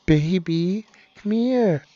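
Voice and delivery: coaxing, put-on sweet call; mock sweet. Host pretending to lure writers in, mock sweet. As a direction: say it all sugary, hammed up. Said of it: "be like, all sweet and nice".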